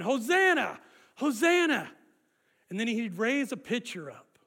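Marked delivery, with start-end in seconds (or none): 0.0-1.9 raised chanting call; shouting. Retold or imitated. Preacher leading the crowd, loud shouting. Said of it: "people would be shouting".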